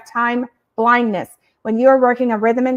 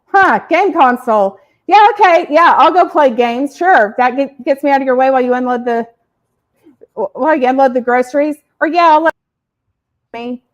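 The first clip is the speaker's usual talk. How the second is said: put-on cheerful kid voice; 3 dB louder than usual. Son acts out misunderstanding.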